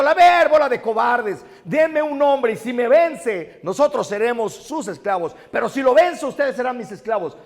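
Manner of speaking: Goliath bellows at the cowards, loud and high; giant's roar. Retold or imitated. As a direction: roar the dare at the whole army. Goliath shouting at the army.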